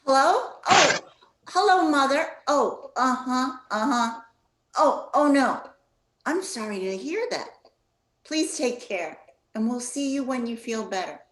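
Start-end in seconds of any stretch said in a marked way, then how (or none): 0.0-9.2 high, loud and sugary phone greeting; sweet phone voice. Acted. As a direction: put on the bright telephone voice for Grandma. Mother answers Grandma's call.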